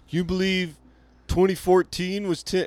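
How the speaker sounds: high, amazed mock tone; mocking incredulous voice. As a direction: do the wide-eyed "can you believe it" person. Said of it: "you know when people go".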